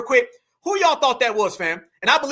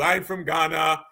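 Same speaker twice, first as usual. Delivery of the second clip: slow, low imitation of a Ghanaian caller; caught-out caller in mock Ghanaian accent; 4 semitones lower, slower than usual. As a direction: put on a drawn-out Ghanaian accent. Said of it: "somebody with a fake accent like him".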